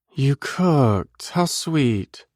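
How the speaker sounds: high female voice, dry sarcasm; sarcastic. Acted. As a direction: tease him with sarcastic sweetness. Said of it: "I'm sensing your sarcasm".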